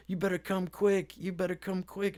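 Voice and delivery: high-pitched imitation of an impatient woman. Voices impatient woman warning him.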